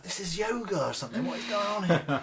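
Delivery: high, baffled mock complaint; mock bewilderment. Actor recalling balancing on one foot, mock bewildered. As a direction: lightly ham up the confusion. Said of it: "I was like".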